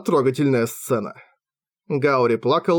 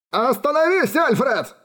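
desperate cry; 11 semitones higher than usual. A narrator's reading. Father leaps between them.

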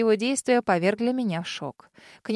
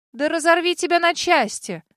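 higher, louder furious yell; 7 semitones higher, 4 dB louder than usual. Acted. Heroine screaming at the ghost dragon, furious. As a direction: scream it at him in rage. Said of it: "взбешённо заорала я".

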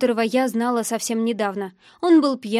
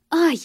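short, high yelp of pain; cry of pain; 6 semitones higher, 4 dB louder than usual. A narrator's reading. Young woman whose wrist is twisted, pained cry. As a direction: yelp briefly as if hurt. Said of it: "вскрикнула от боли".

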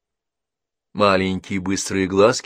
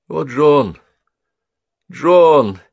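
higher, louder anguished calling; grieving cry; 9 semitones higher, 12 dB louder, much slower than usual. A narrator's reading. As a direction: cry out his name in grief.

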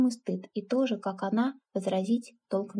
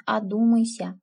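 louder urging; 7 dB louder than usual. Acted. Aunt warns niece twice.

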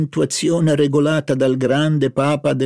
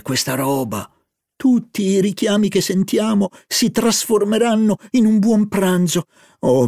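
put-on higher, lively girlish voice; eager young woman; 5 semitones higher than usual. Narrator voicing Albertine excited about the market food. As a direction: play Albertine, greedy and delighted.

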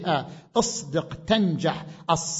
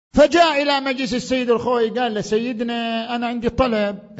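louder, higher storytelling from the pulpit; lively preaching; 7 semitones higher, 6 dB louder than usual. Acted. Preacher tells the visitor's request to the gathering, energetic narration. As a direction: push the anecdote forward with energy.

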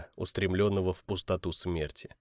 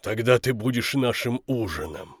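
giants in unison. Acted. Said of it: "в один голос ответили две головы".

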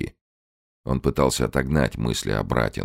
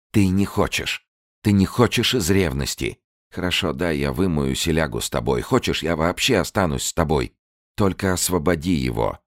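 high, raised bitter bargaining; bitter accusation; 5 semitones higher than usual. Acted. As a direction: accuse him and bargain desperately.

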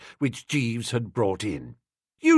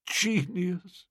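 softly murmured, much quieter; 5 semitones higher, 7 dB quieter than usual. A narrator's reading. Old Bittlesham marvelling at the book, a soft murmur. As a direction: murmur it half to yourself in awe. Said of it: "murmured old Bittlesham".

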